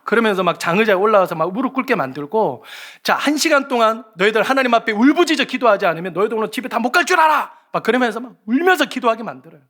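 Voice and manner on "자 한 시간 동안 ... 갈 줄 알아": acted scolding of a group; mock-fierce youth leader warning; stern threat. Leader threatening kids into prayer.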